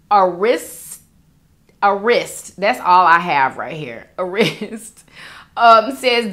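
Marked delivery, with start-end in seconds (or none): 4.2-5.0 whispered through a giggle; laughing whisper. Real, not acted. An aside to viewers, whispered through a giggle. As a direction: breathe it out with a laugh.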